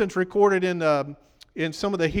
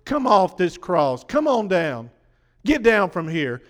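mocking jeer. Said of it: "still just yelling at Jesus".

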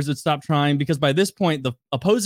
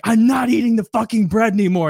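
higher-pitched mock defiance; retold refusal; 6 semitones higher, 3 dB louder than usual. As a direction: imitate a teammate digging her heels in. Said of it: "she's like".

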